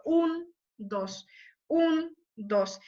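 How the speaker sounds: "Un" fuerte y "dos" caído; ritmo de marcha. Shown as a demonstration. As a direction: pulso binario de marcha. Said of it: "como de marcha". ("un, dos" como marcha)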